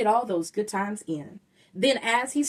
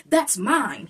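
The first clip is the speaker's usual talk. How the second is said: shouted; 3 semitones higher, 4 dB louder than usual. Acted. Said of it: "he shouted".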